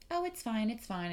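dismissive vet. Retold or imitated. Mimicking the vet brushing off her concern. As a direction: wave the worry away.

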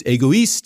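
"égoïste" in French, "ay-go-EEST"; French pronunciation. Shown as a demonstration. Guest listing words for selfish, French word said in French. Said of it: "In French, it's".

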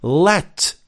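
single out "let" as the key word; stress on LET. Shown as a demonstration. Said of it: "The first word is critical".

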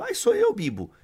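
put-on very high-pitched girly squeal, then dropping; imitated young woman. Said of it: "Aí a moça tava assim". (imitação de moça, voz fina)

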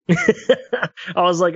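laughing. Real, not acted.

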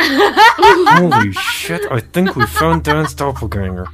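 high, slow, stretched-out exclaim; excited shout. Retold or imitated. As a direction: shout it in disbelief. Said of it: "we go".

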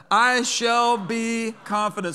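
loud, high and slow, leading the crowd; call-and-response proclamation. Shown as a demonstration. Preacher leading congregation to repeat the verse, loud. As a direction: lead them in it, loud and sure. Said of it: "Say that".

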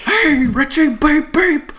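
high, loud Brooklyn clown voice; Pennywise-style Brooklyn taunt; Brooklyn accent. Retold or imitated. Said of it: "He does, like, a Brooklyn accent".

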